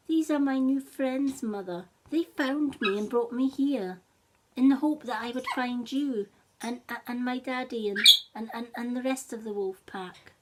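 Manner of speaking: put-on a young wolf hoping to find its parents; lightly voiced wolf pup; eager wolf cub. Cub answers his mother.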